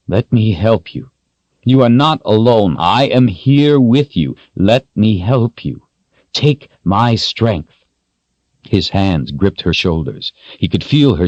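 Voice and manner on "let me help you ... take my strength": slow, steady and reassuring; calm voice. Acted. Richard calmly offers his strength to the terrified Kaelin. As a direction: soothe her back gently. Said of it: "He spoke her name in a calm voice".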